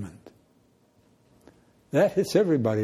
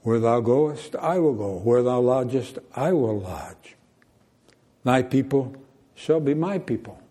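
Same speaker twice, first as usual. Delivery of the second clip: plain, earnest and direct; a pastor savoring Ruth's vow; sincere declaration. Shown as a demonstration. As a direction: say it as a heartfelt promise. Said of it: "direct and sincere".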